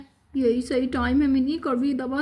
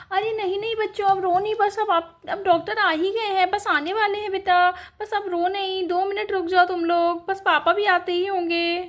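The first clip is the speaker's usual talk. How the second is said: put-on a mother gently calming her hurt kids; soothing mother; 4 semitones higher than usual. Mother calming her crying children, soothing. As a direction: hush them, the doctor is coming.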